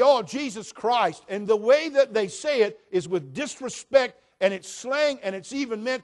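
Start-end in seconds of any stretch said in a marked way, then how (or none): 0.0-1.2 mock cuss. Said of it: "No, it's gotta be".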